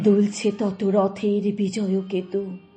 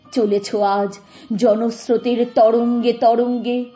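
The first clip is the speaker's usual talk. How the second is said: impassioned declamation; 2 semitones higher, 4 dB louder than usual. Acted. Mourner addressing the friend carried off on waves of people, surging declamation. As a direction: let each phrase surge like a wave.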